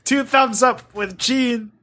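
slow, hammed-up critic's verdict; Roger Slimebert. Critic handing down his rating, slow put-on voice. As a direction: deliver a mock review with drawn-out importance. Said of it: "Roger Slimebert, the, the Monster Girl critic".

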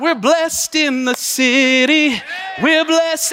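elated exclamation; joyful shout. Retold or imitated. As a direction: shout it to the whole house. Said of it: "I was like".

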